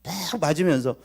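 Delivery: ordinary talk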